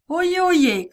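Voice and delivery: high, loud town-crier call; herald's cry. A narrator's reading. Herald to the crowd, loud proclamation. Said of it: "criait-il".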